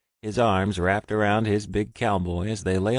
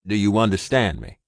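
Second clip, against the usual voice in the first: louder, urgent, steady orders; urgent commands; 6 dB louder than usual. Acted. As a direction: get him to safety now. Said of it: "he commanded his mate".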